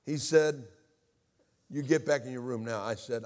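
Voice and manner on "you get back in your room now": firm but unshouted command, lightly acted; reined-in imitation of a stern stepfather; retold controlled order. Stepfather repeats order to boy, mildly stern.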